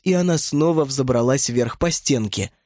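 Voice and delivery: usual speaking voice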